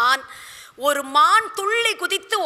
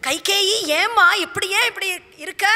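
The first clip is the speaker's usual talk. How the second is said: higher-pitched, anxious questioning; acted dismay of a worried husband; distressed; 7 semitones higher than usual. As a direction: ask her in raised, troubled tones. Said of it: "அப்படி துடிச்சு போய்".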